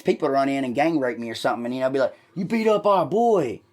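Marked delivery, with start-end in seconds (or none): 2.3-3.6 slower, higher tough-guy voice; menacing thug. Retold or imitated. Gang member threatening the teller, slowly menacing. Imagined attackers threaten him.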